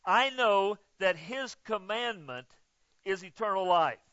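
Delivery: slow, deliberate reread of the verse; slow careful reread. Shown as a demonstration. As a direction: read it again slowly, word by word. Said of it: "I gotta find out what this is".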